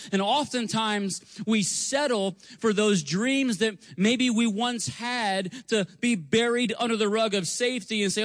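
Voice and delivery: building pulpit exhortation; rousing preaching. Acted. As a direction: preach it to stir the congregation. Preacher driving his point.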